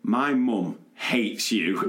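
put-on slow, deliberate kid's comeback; lightly voiced sulky child; child's retort. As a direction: spell it out like a cheeky child.

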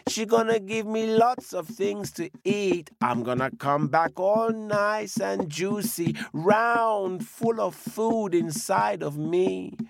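put-on high, pleading little old woman; pleading old lady. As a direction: beg the wolf sweetly to spare her. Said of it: "says the old woman".

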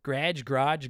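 GARAGE as one syllable, first GRADGE then GRAHJ; trying out pronunciations. Shown as a demonstration. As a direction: try "garage" with a short A, then a long AH. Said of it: "the way I say garage".

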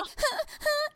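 high-pitched mock baby cry; short high whimpers like a baby; imitated baby crying. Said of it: "Matilda starts to cry".

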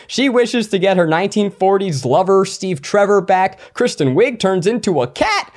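brisk, upbeat intro read; high energy. Pretend. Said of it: "now that was the energy I was looking for".

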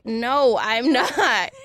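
laughing through the denial; giggling no. Real, not acted.

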